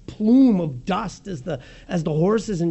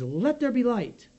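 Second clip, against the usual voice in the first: proclaiming command; 6 semitones higher, slower than usual. Acted. God speaks into darkness.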